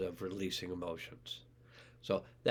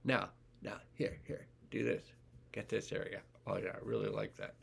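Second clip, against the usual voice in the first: contented cat voice; 6 dB quieter than usual. Retold or imitated. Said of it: "And that cat goes".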